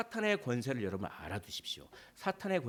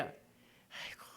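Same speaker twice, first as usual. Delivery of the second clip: whispered sigh; 15 dB quieter, much slower than usual. Acted. Satan sighing.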